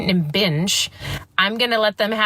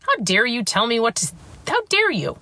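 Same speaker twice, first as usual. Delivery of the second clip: indignant retort; 2 semitones higher than usual. Retold or imitated. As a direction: throw the accusation right back at her. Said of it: "And I was like".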